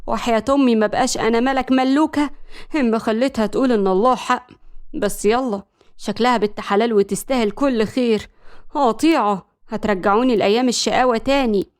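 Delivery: mildly cocky vow; a touch of self-assured swagger; confident. Acted. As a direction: state it with understated assurance. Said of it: "ملك ربعت إيديها وقالت بثقة".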